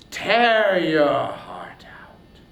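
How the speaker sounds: whispered threat, drawn out slow; sudden whispered menace inside a furious speech; menacing whisper. Acted. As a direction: breathe the curse as a slow whisper. Curse dropped to a hiss.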